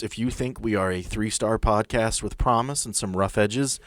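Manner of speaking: ordinary delivery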